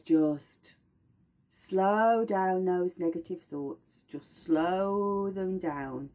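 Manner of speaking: slow, calming oil voice; a gentle slow calm-down, lightly voiced; mild soothing voice. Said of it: "Cedarwood goes".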